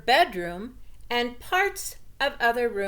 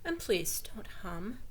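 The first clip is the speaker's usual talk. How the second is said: nagging; 8 dB quieter than usual. A narrator's reading. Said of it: "even though she nagged a little".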